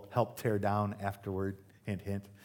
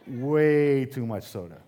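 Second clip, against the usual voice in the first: slow, drawn out with a laugh; slow laughing punch; 6 dB louder, slower than usual. Real, not acted. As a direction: land it slowly through a laugh.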